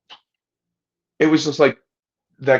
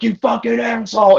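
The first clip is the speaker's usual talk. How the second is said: much higher, louder mock outburst; angry outburst; 13 semitones higher, 5 dB louder than usual. Woman hit with sand yells at the storyteller, high, loud mock fury. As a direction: fling it back after sand in the face. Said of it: "And she's like".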